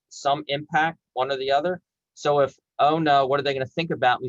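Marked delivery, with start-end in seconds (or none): 2.8-4.3 mock anxious thought. Shown as a demonstration. Coach showing the anxious thought that winds you up, fast mock worry. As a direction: hurry through it like a nervous mind. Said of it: "is gonna turn the dimmer switch up".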